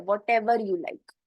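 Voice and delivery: Whatever you like said very slowly and clearly; teacher slowing Whatever you like down for the class; slow model phrase. Shown as a demonstration. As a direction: spell out Whatever you like word by word for learners.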